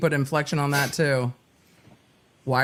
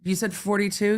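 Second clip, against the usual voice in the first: mock disbelief; 3 semitones higher than usual. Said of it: "the jury just went".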